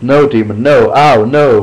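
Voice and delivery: put-on hurt boy crying out at the horse; pained shouting. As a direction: yell as the horse bites. Brad bitten by the horse.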